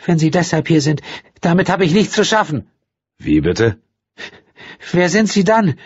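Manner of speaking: high, fearful woman's voice; panicked, frightened. A narrator's reading. Frightened woman asking the stranger what he wants, panicking. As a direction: sound cornered and scared. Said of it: "klang noch ängstlicher".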